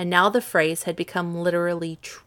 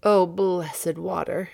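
longing exclamation; 3 dB louder, slower than usual. Acted. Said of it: "exclaimed Midas".

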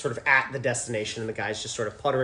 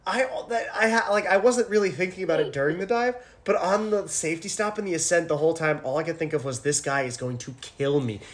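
retelling her panic with a light whine; a hint of a wounded diver; mock exasperated self; 5 semitones higher than usual. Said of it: "I was just like".

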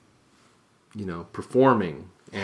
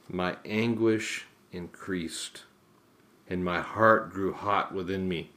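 scripture reading. Acted. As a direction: read the psalm solemnly. Reads the psalm aloud.

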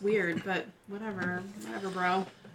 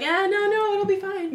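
dismissive; 10 semitones higher, 6 dB louder than usual. Retold or imitated. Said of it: "And they're like".

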